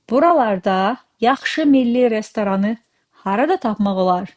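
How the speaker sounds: harada lifted and leaned on, question tune; stress on harada. Shown as a demonstration. Teacher reading the Azerbaijani question with stress on harada. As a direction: make harada carry the question. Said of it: "See how I put stress on the word harada?".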